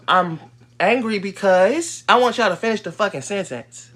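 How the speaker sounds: angry and done explaining; real anger. Real, not acted. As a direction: lean hard on each word, fed up. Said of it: "bitch, I am angry".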